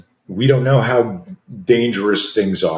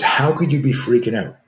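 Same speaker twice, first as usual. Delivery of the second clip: higher, disbelieving question; retold incredulity; 5 semitones higher than usual. Wife questions her anxious husband before his class, incredulous. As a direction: challenge it in mild mock astonishment.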